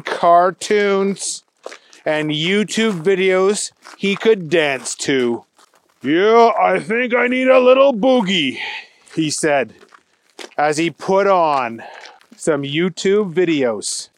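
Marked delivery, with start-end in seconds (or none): 6.0-8.6 excited. Acted. Agent decides to dance.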